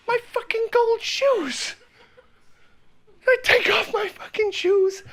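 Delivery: high laughing disbelief. Real, not acted. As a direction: laugh through the words. Laughing at absurdity.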